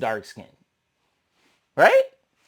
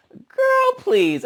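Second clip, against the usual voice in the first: put-on Girl pitched way up, then a flat please; dismissive girl please. Dismissing Mariah's insult with a sky-high Girl. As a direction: swat the comment away with a sky-high Girl. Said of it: "And I'm like".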